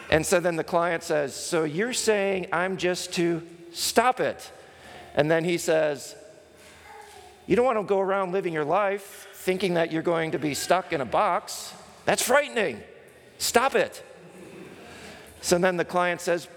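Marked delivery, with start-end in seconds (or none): 1.3-4.5 slow, high, disbelieving question; puzzled client repeating the advice; incredulous client. Retold or imitated. Client doubts the advice, retold. 7.5-14.0 high-pitched mock scolding; comic telling-off of a client; exasperated counselor. Counselor scolds client in retold skit.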